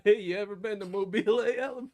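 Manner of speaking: mock question breaking into giggles; joking through laughter. Teasing friend with silly city name, giggling. Joke built on silly pronunciation.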